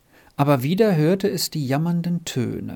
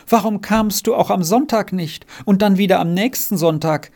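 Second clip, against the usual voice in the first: raised, lamenting questioning; plaintive wailing; 6 semitones higher, 4 dB louder than usual. Acted. Margretli asking Renz why he stayed away, plaintively wailing. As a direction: ask it as a high-pitched complaint. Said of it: "jammerte Margretli".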